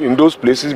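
"those" picked out with mild emphasis; stress on "those". Real, not acted. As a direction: repeat the phrase, leaning on "those". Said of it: "I stress that word".

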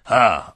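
loud sneering ha; scornful ha. Acted. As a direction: bark a mocking ha. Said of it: "z przekąsem". (szydercze, głośne „ha”)

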